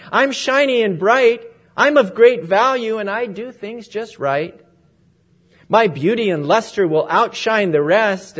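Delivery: preening gold cup selling itself; boastful gold vessel. Acted. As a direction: show off to win the master. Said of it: "cried the gold one".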